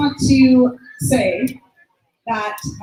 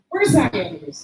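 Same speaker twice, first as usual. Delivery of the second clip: slow call across the room, raised voice; 3 semitones lower, slower than usual. Real, not acted. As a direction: call him up to the stage, drawn out. Host calls student up on stage.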